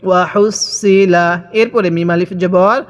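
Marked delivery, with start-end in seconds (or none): 0.1-1.3 slow "ওয়া হুসিলা" with a heavy, emphatic Arabic sad for the s; sad, not sin. Shown as a demonstration. Teacher showing the letter's articulation, "ওয়া হুসিলা" slow with emphatic sad. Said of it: "কিভাবে পড়তে হবে".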